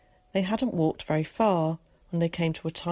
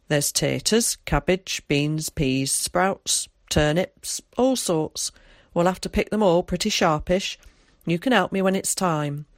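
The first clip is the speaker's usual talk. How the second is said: lightly voiced countryman, a little louder; Tom; 5 dB louder than usual. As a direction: list the crops with a touch of rural dialect.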